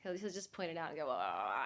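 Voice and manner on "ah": imitating husband. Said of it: "my imitation is".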